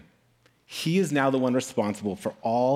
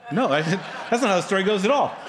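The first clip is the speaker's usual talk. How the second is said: fast, higher protest breaking into laughter; laughing denial; 5 semitones higher, faster than usual. Real, not acted. Preacher rejecting his fake ending, laughing and emphatic. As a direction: laugh while firmly setting it straight.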